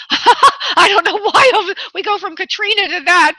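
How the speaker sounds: laughing it off, voice up high. Real, not acted. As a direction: chuckle through the puzzled aside. Medium laughs at the odd jump.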